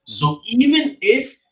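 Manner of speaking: muffled, roomy bad connection; sounding far off in an attic. Real, not acted. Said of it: "He sounds like he's in an attic".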